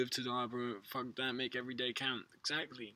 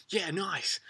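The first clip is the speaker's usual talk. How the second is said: whispered inner thought; 7 semitones higher, 4 dB louder than usual. Retold or imitated. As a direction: whisper it under your breath. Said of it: "in the back of my mind".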